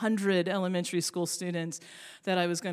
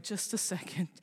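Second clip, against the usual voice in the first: brushing him off; 3 semitones lower, 9 dB quieter than usual. Retold or imitated. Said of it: "And I'm like".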